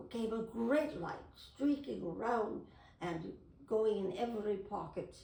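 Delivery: lightly British storytelling read; a gentle British lilt, reading Peter Pan aloud; British accent. Shown as a demonstration. Reading Peter Pan to the camera in a light British accent. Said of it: "So I do it in a British accent".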